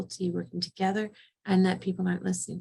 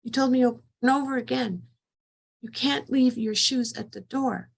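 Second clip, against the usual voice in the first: higher mock scolding, slowing at the end; retold yelling; 5 semitones higher than usual. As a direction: scold the kids in a half-acted yell. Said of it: "I'm yelling".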